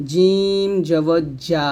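slow long জিম, firm j in জা; palatal j. Shown as a demonstration. Teacher demonstrating the letter, slow firm j in জিম. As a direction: press tongue middle to palate for জিম. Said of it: "জিহ্বার মধ্যখান তার বরাবর উপতালুর".

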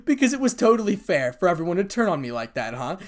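loud, high, sarcastic outrage; bitter mocking accusation; angry. A narrator's reading. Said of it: "in anger".

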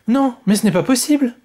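high indignant outburst; outraged cry. Acted. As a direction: cry out in disbelief like an indignant little queen. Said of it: "s'écria la petite reine".

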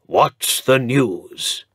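put-on old earl in pain greeting his lawyer; bad-tempered earl. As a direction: bark it like a grumpy old lord. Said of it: "even more bad-tempered than usual".

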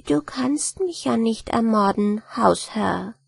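fine and friendly. Acted. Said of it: "mit feiner und freundlicher Stimme".

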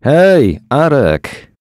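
loud, high call through the window; shout. A narrator's reading. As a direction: call out to a man in the rain. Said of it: "krzyknął do mężczyzny". (krzyk przez uchylone okno)

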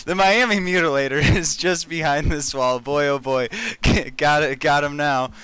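read normally, laughing. Acted. Player reading Batman's line plainly while laughing. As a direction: read the line and keep cracking up. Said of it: "read it normally".

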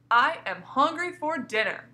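slow, emphatic exclamation; exclaiming. Shown as a demonstration. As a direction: say it like a real exclamation. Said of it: "that's always an exclamation point".

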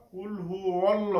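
অল্ল with a thick, dark L and rounded O; heavy L. Shown as a demonstration. Teacher corrects the word for Allah, heavy L. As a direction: say অল্ল full-mouthed, rounded "awl-law". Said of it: "আল্লাহ বলবো না, বলবো".

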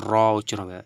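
র said loud with the tongue vibrating. Shown as a demonstration. Teacher showing students the vibrating র, loud. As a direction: trill the র, tongue tip against the palate. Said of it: "vibrate হবে".

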